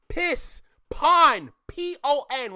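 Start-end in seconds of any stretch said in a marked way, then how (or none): 0.9-1.5 "Pon" said loud and drawn out; emphatic, lengthened "Pon"; Caribbean "Pon". Shown as a demonstration. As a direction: punch out "Pon" as the Caribbean word for on. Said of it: "When we say on, it's pon".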